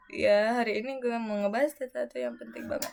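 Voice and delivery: whispered video intro; whispering. Pretend. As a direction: breathe it out, no voice. Rekaman intro, bisik-bisik. (berbisik pelan)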